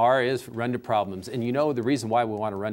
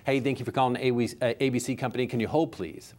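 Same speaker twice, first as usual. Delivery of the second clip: rushed. Retold or imitated. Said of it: "you would never do that in person".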